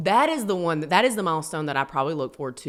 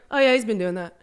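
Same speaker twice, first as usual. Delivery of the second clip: casual; 3 semitones higher than usual. Retold or imitated. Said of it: "Just so casually".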